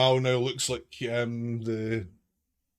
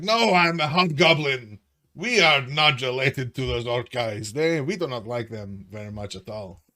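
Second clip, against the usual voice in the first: Zudar; 3 semitones higher, 6 dB louder than usual. Acted. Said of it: "Zudar's just like".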